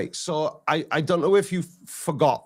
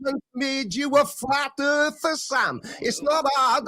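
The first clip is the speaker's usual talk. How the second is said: higher, pressing and impatient; exasperated; 8 semitones higher than usual. Real, not acted. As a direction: demand it, fed up. Pressing question in heated debate.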